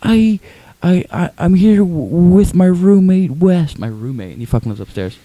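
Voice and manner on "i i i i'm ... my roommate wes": high, stammering phone-message mimicry; Tim impression. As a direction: drag out the words in a high put-on voice. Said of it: "He's like".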